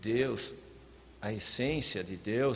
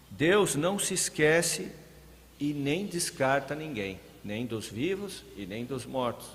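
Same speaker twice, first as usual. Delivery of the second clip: raised, louder preacher's voice; forceful preaching; 3 semitones higher, 5 dB louder than usual. Real, not acted. Preacher urging the congregation to show living hope, forceful. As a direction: press it home to the congregation with force.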